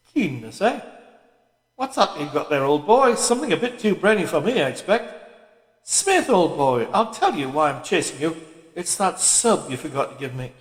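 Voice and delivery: a hint of a chummy, overgrown schoolboy; teasing a colleague in a lightly hearty voice; hearty Parsons. Parsons chatting to Winston.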